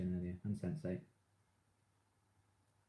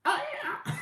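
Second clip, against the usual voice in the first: much higher, louder imitation of a singer; mock singer; 8 dB louder than usual. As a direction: coo it way up high like a singer on stage. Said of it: "she's like".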